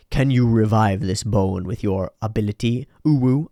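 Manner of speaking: cutesy voice tacking on uwu. Acted. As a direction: play it cute and silly. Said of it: "Oh, it was the Uwu voice".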